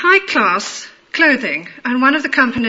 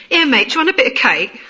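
quick lower-class London, consonants dropped; lower-class London accent; faster than usual. Shown as a demonstration. Showing how lower-class Londoners offer cake, lower-class London accent. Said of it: "There's the lower-class accent".

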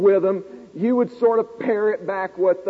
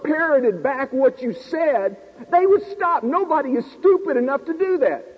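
agitated protest; 3 semitones higher than usual. Retold or imitated. Student protesting to the professor, agitated. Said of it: "I said".

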